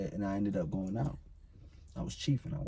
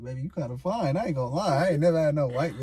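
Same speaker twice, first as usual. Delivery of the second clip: smooth talking; 5 semitones higher, 6 dB louder than usual. Retold or imitated. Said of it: "I was talking my shit".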